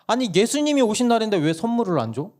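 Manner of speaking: 훨씬 높은 아이 목소리로 따지기; 억울하게 항의하는 꼬마처럼. Retold or imitated. 막내가 따짐. (엄마에게 따지는 막내 목소리)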